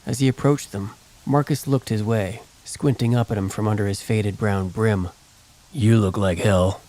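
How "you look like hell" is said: gruff gunman. Acted. Gruff gunman greets beaten Joseph.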